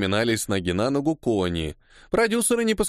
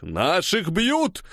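high, long-drawn shout; alarm cry; 7 semitones higher, much slower than usual. A narrator's reading. Workers running in to help comrades, shouting. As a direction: raise the alarm across the crowd. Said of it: "Под крик".

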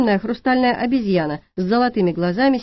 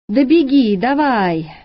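loud taunting shout, higher; 4 semitones higher, 4 dB louder, slower than usual. Acted. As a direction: yell it after him mockingly. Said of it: "кричала девчонка". (громкий насмешливый крик)

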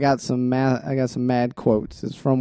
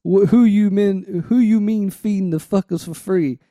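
mock-indignant lyric reading, somewhat raised; motivation voice; 4 semitones higher than usual. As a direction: deliver the lines like a half-joking rant. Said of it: "I'll read it in this voice".

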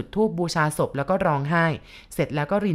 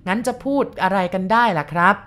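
stunned; 3 semitones higher, 4 dB louder than usual. Acted. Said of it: "พูดอย่างตกตะลึง".

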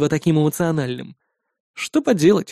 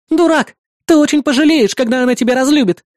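high, loud shout after him; angry shout; 7 semitones higher, 4 dB louder than usual. Acted. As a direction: yell after him as he leaves. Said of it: "крикнула мне вдогонку Мелисса".

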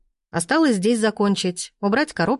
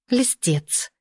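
flirtatious laugh; 5 semitones higher than usual. A narrator's reading. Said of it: "кокетливо засмеялась".

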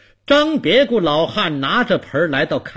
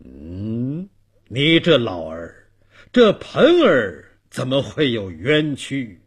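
mildly cross; 3 dB louder than usual. Acted. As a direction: chide the old man with mild displeasure. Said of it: "包公嗔道". (略带嗔怪地责问)

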